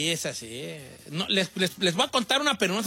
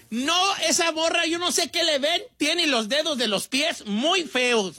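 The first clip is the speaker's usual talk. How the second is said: higher, drawn-out mimicry of a complaining guy; slow, exaggerated mock quote, pitched up; mocking a picky dude; 6 semitones higher, slower than usual. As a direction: stretch it out like a fussy dude. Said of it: "Che, vato que dice".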